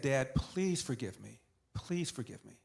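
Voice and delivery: slow, hushed pleading to a father; understated, drawn-out plea; retold plea.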